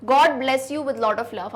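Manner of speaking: slow, dictation pace; dictating an example sentence. Shown as a demonstration. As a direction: read it slowly so students can copy. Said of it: "जैसे".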